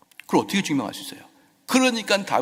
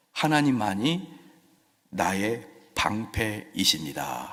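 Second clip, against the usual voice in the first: ordinary talk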